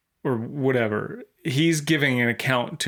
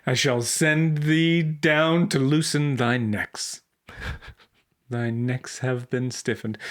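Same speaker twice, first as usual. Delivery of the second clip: mock preacher; slower than usual. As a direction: ham up a pompous preacher, slowly. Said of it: "mock King James preacher".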